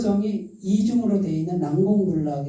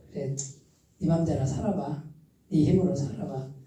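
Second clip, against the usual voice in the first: a hint of God speaking, softer and resigned; God voiced, letting go; 4 semitones lower, 6 dB quieter than usual. God tells the stubborn believer to try alone, softly. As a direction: quietly let them go their own way. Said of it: "기다렸어요".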